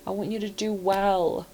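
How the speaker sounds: a hint of motherly comfort; tender reassurance. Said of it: "But you're like".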